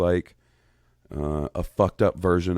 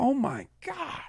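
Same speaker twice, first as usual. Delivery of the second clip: much higher and softer, a pained whimper; anxious groan; 6 dB quieter than usual. Real, not acted. Host teased about aging, softly whimpering in mock anguish. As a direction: whimper it like the teasing really stings. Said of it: "You are really giving me the, the anxiousness".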